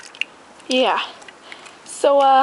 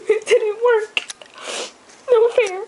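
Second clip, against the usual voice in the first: laughing; 8 semitones higher than usual. Real, not acted. Laughing at her failure.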